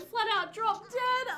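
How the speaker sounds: loud, high, disbelieving; stunned loud exclamation; shocked outburst. Real, not acted. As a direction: blurt out the shocking twist. Shocked telling of sim death.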